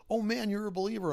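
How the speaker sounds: lightly acted delighted believer; excited. Old man delighted to meet a fellow believer, imitated excitement. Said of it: "he's all excited".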